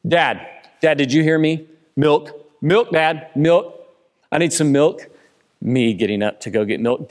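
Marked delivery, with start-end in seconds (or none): 0.1-5.1 yelling across the room. Retold or imitated. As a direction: kid calling louder and louder. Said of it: "this is how a conversation ... plays out".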